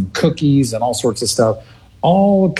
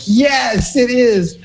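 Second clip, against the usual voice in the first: much higher, gleeful yes to her son; elated agreement; 13 semitones higher, much slower than usual. Retold or imitated. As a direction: mom gushing that it's exciting. Mom still elated on phone.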